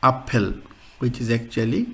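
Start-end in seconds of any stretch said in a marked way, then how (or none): 0.0-0.6 "Apfel" with an open ah at the start; pronuncia tedesca. Shown as a demonstration. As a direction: say "Apfel" as the German word. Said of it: "first German word you learn is".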